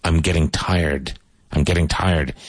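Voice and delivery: teacher's careful "tired", no separate "red"; "tired" as one syllable. Shown as a demonstration. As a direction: model "tired" as a single smooth "tyrd". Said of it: "One syllable, always".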